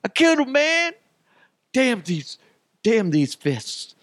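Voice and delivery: loud, high-pitched hammed-up horror; squeaky mock anguish at his own strength; mock panicked kid. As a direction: wail it like an overdramatic child. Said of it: "And I'm like".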